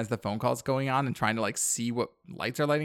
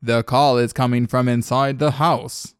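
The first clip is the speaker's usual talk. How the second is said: dramatic reveal; 9 dB louder than usual. Acted. Horror movie twist line, reenacted.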